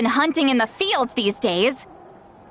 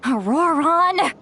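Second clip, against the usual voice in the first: higher, stretched call after him; calling out angrily; 4 semitones higher than usual. Acted. Grandmother shouting after her grandson as he slips away. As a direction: yell his name to stop him leaving.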